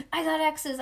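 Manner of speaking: hollering. A narrator's reading. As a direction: call it out to claim it first. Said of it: "I hollered".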